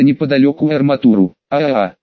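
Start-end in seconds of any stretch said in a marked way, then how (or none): none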